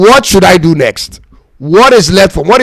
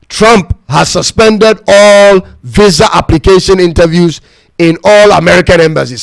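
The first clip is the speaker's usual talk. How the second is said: slow emphatic restating. Shown as a demonstration. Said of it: "I was told that Trump has suspended".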